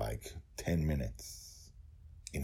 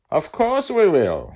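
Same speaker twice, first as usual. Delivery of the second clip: put-on much higher, slow, bright child's promise; a delighted small girl promising; happy little girl; 15 dB louder, slower than usual. Girl promising dragon a return, high happy child voice. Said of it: "she said immediately and happily".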